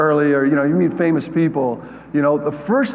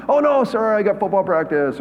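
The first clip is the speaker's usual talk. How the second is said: high, quick fake excuse; mock excuse; 5 semitones higher than usual. Boy dodging a ski trip with friends, high excuse. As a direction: brush off the invite brightly. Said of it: "I'm like".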